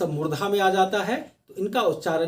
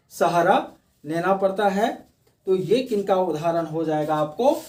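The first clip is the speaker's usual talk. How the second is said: ordinary talk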